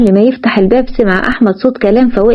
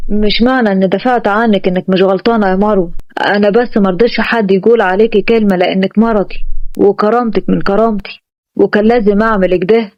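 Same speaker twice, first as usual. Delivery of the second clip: a lightly lowered, firm husband; Ahmed's voice; 3 semitones lower than usual. Acted. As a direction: keep it calm and slightly lower as Ahmed. Ahmed explains himself to Marwa.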